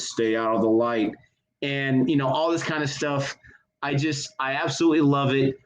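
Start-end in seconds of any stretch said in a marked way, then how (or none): 0.0-1.1 lower-pitched movie-hero warning; lightly acted low warning; low quoted movie line. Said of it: "where he says".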